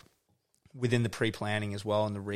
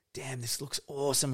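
mock-hyped, higher voice; hyped filmmaker; 4 semitones higher than usual. Filmmakers hyped on their own edit, mock excitement. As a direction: act out getting hyped on an edit. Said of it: "we'll be like".

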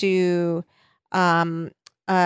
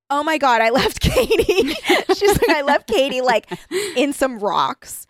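mock panic; 7 semitones higher than usual. The speaker realizing she left Katie behind, mock panic. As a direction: play the dawning horror for laughs.

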